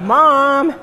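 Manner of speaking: mother imitating her teenage daughter's protest; exasperated daughter. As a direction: whine "Mom" through a laugh. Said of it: "she's like".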